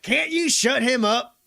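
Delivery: high, loud irritated shout; exasperated officer's demand; McGarrett. Acted. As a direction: yell over the noise. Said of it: "McGarrett's like".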